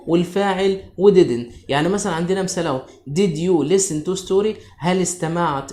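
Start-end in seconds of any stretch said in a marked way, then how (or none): 3.1-4.6 slow, spaced-out question; slow dictation. Shown as a demonstration. Teacher reading a question example to pupils, slow.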